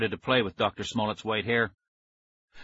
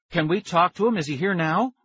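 put-on eager kid voice; 7 semitones higher than usual. A narrator's reading. Nicky eager questions.

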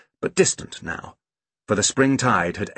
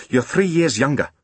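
put-on mildly sharp, raised child's voice; sharp retort; 5 semitones higher than usual. A narrator's reading. Big sister reminding brother of his age, sharp. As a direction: correct him a touch sharply. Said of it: "said Kirsty quite sharply".

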